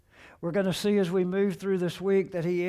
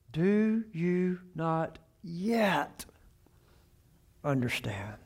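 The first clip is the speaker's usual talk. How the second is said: "Do you not yet" drawn out very slowly, "understand" whispered; slow fading question; slower than usual. Acted. Preacher voicing Jesus to his disciples, slow and fading to a whisper. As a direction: let the question die into a whisper.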